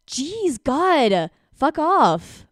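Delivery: high, loud exasperated snap; overreacting. Shown as a demonstration. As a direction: blow up at him. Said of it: "me sort of overreacting".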